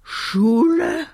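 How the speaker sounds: baffled stammer ending in a high question; astonished stutter. A narrator's reading. Puppet Kasper hears of a school, astonished stutter. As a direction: break off and retry, rising high. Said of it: "Kasper stotterte, so verblüfft war er".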